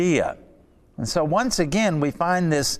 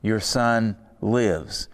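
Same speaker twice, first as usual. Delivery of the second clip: quiet solemn echo; 3 semitones lower, slower than usual. Retold or imitated. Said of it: "Jesus said to him".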